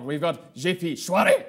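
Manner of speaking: a crack in the voice. Real, not acted. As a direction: voice cracks on the name. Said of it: "My voice cracked".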